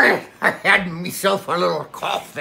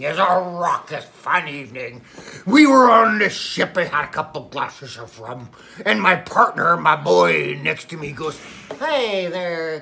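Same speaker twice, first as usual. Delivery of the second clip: lightly voiced old sea captain spinning a yarn; a hint of a salty pirate telling a tall tale; pirate storyteller. Pirate Paul tells Billy his Godzilla story, lightly pirate-voiced. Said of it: "the pirate is back".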